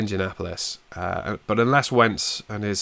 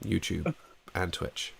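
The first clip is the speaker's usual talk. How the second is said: Fraser Crane; 2 semitones lower, 5 dB quieter than usual. Acted. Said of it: "a pretty good Fraser Crane impression right now with my, my husky voice".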